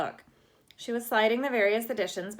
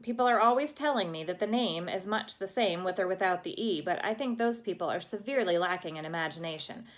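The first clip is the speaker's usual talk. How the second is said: put-on dramatic girl; 2 semitones higher than usual. Anne voiced, rambling dramatically.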